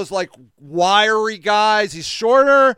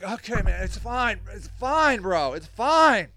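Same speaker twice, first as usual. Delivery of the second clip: retold placating; 5 dB quieter than usual. Placating a hugging drunk.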